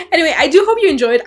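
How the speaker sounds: fast, loud and laughing. Real, not acted. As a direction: laugh through the sign-off. Laughing while wrapping up.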